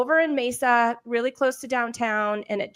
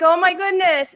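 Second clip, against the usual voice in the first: relieved gasp; 8 semitones higher, 8 dB louder than usual. Retold or imitated. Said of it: "I'm like".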